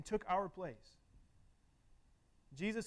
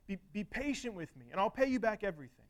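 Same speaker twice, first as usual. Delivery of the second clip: begging, raised pitch, pushing on the promise to repay; mild pleading; 5 semitones higher than usual. Retold or imitated. Slave begs his master for patience, mildly pleading. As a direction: plead for more time, with restraint. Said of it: "he begs him".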